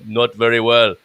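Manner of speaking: attempted Californian American accent; put-on American accent. Shown as a demonstration. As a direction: have a light-hearted go at an American accent. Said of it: "That's an American accent in California".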